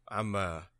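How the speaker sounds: talking while sick with a cold. Real, not acted. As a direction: voice roughened by being sick. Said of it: "that sick voice of yours".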